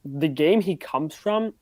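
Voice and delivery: slow, choppy lagging mic voice; glitchy robotic call audio. Real, not acted. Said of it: "'Cause you was lagging like a robot".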